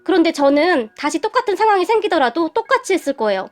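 plaintive, pleading justification; mildly tearful. Acted. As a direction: explain yourself, a touch choked up. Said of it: "제가 눈물을 흘리며 말을 했고". (살짝 울먹이며 호소하듯)

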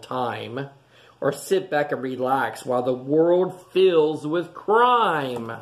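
gentle storybook read-aloud voice; storybook rhythm for little listeners; reading to children. A narrator's reading. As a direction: read it like a bedtime picture book. Reading picture book to children.

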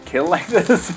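mocking the tongue-out lisp; tongue sticking out. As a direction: copy the tongue-out slur. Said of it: "my tongue was out".

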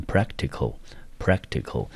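practical stressed on prac, said twice; first-syllable stress. Shown as a demonstration. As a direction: model practical carefully, stress up front, falling away. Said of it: "重音节落在第一个音节".

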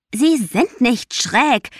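slow, high, loud roar; roared back. A narrator's reading. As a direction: roar it back, dragging each word. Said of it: "brüllte Juna zurück". (langsam und laut zurückgebrüllt)

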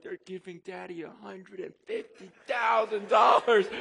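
loud, near-shouted reveal; excited announcement. Retold or imitated. Father telling his kids the big news, loud and excited. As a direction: announce it like a prize.

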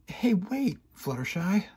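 high, loud call after her; shouting. A narrator's reading. Rainbow Dash shouting after departing Fluttershy. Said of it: "I shouted".

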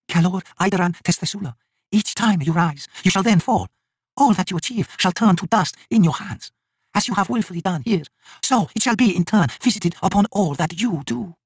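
high, slow solemn curse; goddess pronouncing a curse. A narrator's reading. Sister curses the High King, high and solemn. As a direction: intone her doom in a high, measured voice.

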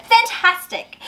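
high excited cry; excited shout. A narrator's reading. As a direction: shout it with delight. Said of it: "Elizabeth shouted".

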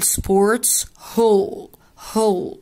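"sports hall" slowly, with "hall" as a long "hol". Shown as a demonstration. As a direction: round the vowel of "hall" into a drawn-out O. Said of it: "تتنطق O". ("hall" بصوت O ممدود)

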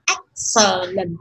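slow "Excellent", first syllable stressed, the rest falling low. Shown as a demonstration. Teacher showing students where stress falls, stressed "Excellent". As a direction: hit the start of "Excellent", let the unstressed syllables drop. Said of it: "trọng âm rơi vào đó sẽ là dấu sắc".

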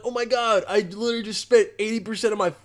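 lightly voiced vain young guy; mock E-boy. Mocking E-boys bragging about buying jewelry, lightly voiced. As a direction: whine about spending it all, lightly. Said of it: "They're like".

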